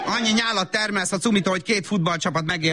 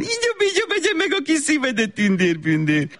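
very high sing-song coo; distracted sugary coo with a laugh; high sugary baby talk; 9 semitones higher than usual. Mother coos, phone in hand.

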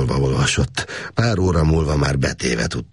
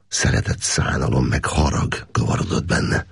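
ordinary delivery

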